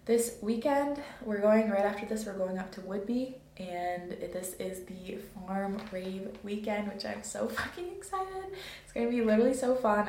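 buzzing with too much coffee; caffeinated. Real, not acted. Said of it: "I am so caffeinated right now".

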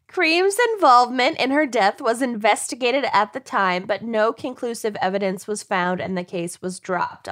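tipsy read, settling down. Real, not acted. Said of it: "I'm drunker and drunker".

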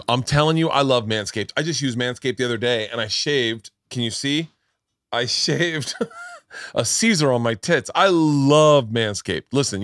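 punchy, emphatic sponsor pitch; ad read. Acted. Podcast host plugging the grooming sponsor, emphatic ad read. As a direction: sell it like a hyped podcast host.

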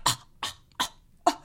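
voiceless mock huffs, one after another; imitated huffing. Mimicking the passenger turning to her husband, breathy indignant huffs. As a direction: puff out short, scandalised breaths. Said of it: "looked at her husband and was like".

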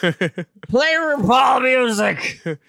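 high, slow, loud voice command; over-enunciate for the device; commanding a smart speaker. Pretend. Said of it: "how I try to speak to my in-home".

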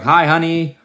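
mock domestic hello; homecoming gym-goer. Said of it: "they come home and".

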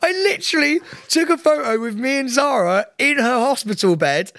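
high squealing laugh through the words; laughing hard while telling the story. Real, not acted. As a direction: giggle it out, pitched right up.

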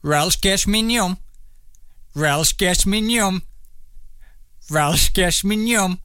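"Welsh Gish Mignon" drawn out like backwards speech; "Welsh Gish Mignon" as slow, garbled backwards-talk; mimicking reversed speech. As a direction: say "Welsh Gish Mignon" slowly, copying a tape played in reverse. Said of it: "You need to mock it as best you can".

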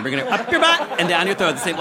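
laughing through the doctor's line; quoting doctor while laughing. Retold or imitated. Comic retelling her doctor's words, laughing. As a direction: giggle as you repeat it. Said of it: "like he was testing me".

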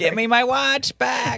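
ghost voice. Pretend. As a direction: moan it like a spooky ghost. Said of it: "like from the story".

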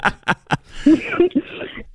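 soft airy giggle; breathy nervous laugh. Real, not acted. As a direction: let out a shy nervous laugh.

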